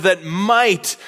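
"might" stressed and set apart before going on. Real, not acted. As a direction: repeat it with the weight on "might". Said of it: "I just want to emphasize that word".

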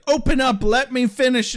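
lightly voiced pushy villain; demanding character quote. Kathy demanding of Buffy, lightly mocked.

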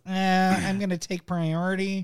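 whiny nerd imitation; mock the nasal-free nerdy player. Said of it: "Instead, it was".

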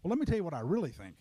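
quick, defensive comeback; defensive retort. Retold or imitated. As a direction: snap back in a mock argument. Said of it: "Rather than saying things like this".

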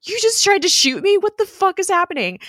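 high, loud outraged squawk; mock shocked disbelief. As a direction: imitate someone stunned at nearly being shot. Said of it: "the look on his face is just like".

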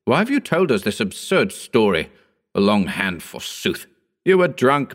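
indignant rant, kept understated; a touch of scornful outrage; angry tirade. Acted. Howard angrily accuses the neighbour.

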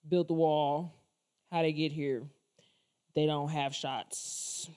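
dismissive, flat chant of slogans; mock Trump supporter. Vlogger mocks neighbors sounding like Trump, dismissive. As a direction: parrot the slogans. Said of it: "you sound like Trump".

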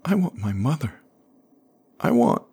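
put-on high, tearful child's voice; a small boy breaking down; a touch of a sob in a high child's voice; crying child. A narrator's reading. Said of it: "he was crying".

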